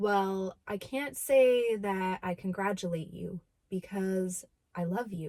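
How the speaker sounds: acted, low, slow, completely dead serious tone. Retelling what someone said after hearing of the engagement: imitating Brad's dead serious tone. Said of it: "dead serious face".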